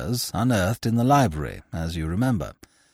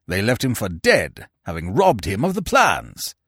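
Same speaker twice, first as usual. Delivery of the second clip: higher, forceful explaining, pressing the point; urgent Sir Lionel; 4 semitones higher, 3 dB louder than usual. Acted. Sir Lionel urging Petrie that Fu Manchu will flee, higher and forceful. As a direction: drive the argument home like a caged lion.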